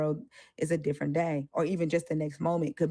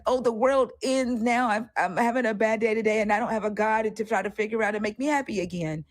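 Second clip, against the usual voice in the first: mocking a believer's despair, higher; 4 semitones higher, 3 dB louder than usual. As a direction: whine it like the sky is falling. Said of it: "they're like".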